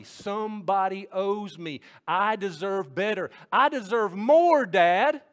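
high, loud, building entitled complaint; escalating indignant whine ending in a high loud cry; victim whine. Acted. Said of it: "caught up in the victim mentality".

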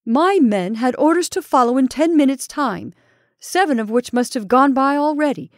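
pinned enemy vowing revenge, fierce; fierce threat. Acted. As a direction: hurl the warning at him. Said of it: "said Ulrich fiercely".

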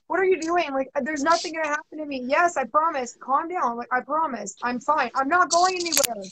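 lightly playing a dismissive boyfriend; imitating boyfriend. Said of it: "I was like".

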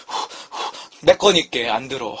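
talking around a scalding bite; mouth full of hot food. Real, not acted. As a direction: blow on hot food mid-sentence. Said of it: "먹다 뱉었네요".

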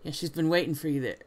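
put-on game character speaking with a southern accent. Rival relaying a message, southern accent. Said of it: "what it is about a southern accent".

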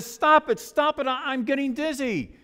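dizzy pleading. Acted. Teacup to master on the spinning wheel, pleading. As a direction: beg in a hurry, pitch lifted.

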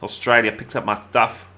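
put-on Australian accent; amateur stab at an Australian accent; mock Australian accent. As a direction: try a playful Australian accent. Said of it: "that's it for my accents".

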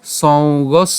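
measured Sanskrit chanting, syllable by syllable; slow verse recitation. Shown as a demonstration. Teacher repeating the verse from the start for students, slow. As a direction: recite the line slowly, each word drawn out. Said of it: "আমি যদি প্রথমে আবার বলি".

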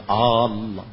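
اللہ with a wrong extra vowel stuck on the front; wrong added vowel. Shown as a demonstration. Teacher showing the wrong Allah that spoils the meaning. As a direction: put a stray sound before اللہ. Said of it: "اس پہ پہلے مت لگا دیں".

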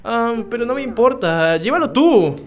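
soft, lightly acted game reading; gentle sister dialogue. Sister giving her brother a protective amulet, gently voiced. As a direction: read it gently, voice held down.

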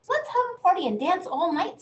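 high, loud and fast party call; the boy calls the sleepy musicians to party, high and excited; excited invitation. Acted. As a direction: bounce it out with glee.

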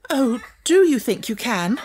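high, breathless plea; gasped hope. A narrator's reading. Frantic teacher clutching at Sarah's offer, gasping. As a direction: gasp it out in relief. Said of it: "she gasped".

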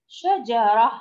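شجرة ending in an h sound, not t; pausal pronunciation. Shown as a demonstration. Teacher shows the ta marbuta at a stop, شجرة ending in h. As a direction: stop on شجرة with a final breathed h. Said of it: "إذا وقفنا عليها ننطقها".

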